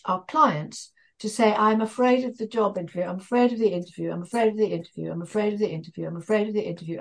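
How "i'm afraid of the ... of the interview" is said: rolled off fast. Shown as a demonstration. Trainer showing clients how to repeat the phrase, rapid and rattled off. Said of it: "roll it off your tongue as fast as you can".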